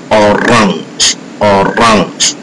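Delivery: "orange" with the stress on its second syllable; French "orange", heavy ending; French final stress. Shown as a demonstration. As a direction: say "orange" in French, leaning on "-range". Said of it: "last part of the word that bears a heavy stress".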